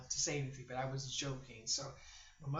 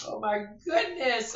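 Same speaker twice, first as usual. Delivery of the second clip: winded; 7 semitones higher, 12 dB louder, slower than usual. Real, not acted. Recovering from laughter.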